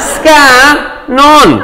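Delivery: "Scan on" in two high, stretched beats; two-syllable Aussie contraction. Shown as a demonstration. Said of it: "I'll knock that out in two".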